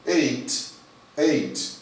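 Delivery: Ate said like eight, one syllable ending in t; pronunciation demo. Shown as a demonstration. Teacher to students, pronouncing Ate like the number eight. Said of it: "Tem a mesma pronúncia do número oito".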